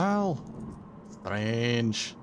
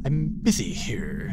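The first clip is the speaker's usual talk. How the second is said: whispering; slower than usual. Real, not acted. Annoyed at moving car.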